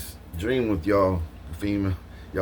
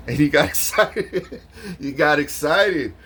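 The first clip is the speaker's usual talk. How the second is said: excited retelling; 7 semitones higher, 4 dB louder, slower than usual. Retold or imitated.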